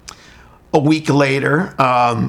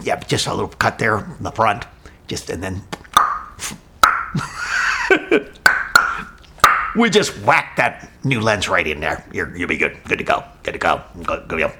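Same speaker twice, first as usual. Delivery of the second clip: doctor; 7 semitones lower, 3 dB quieter than usual. Retold or imitated. Imitating doctor.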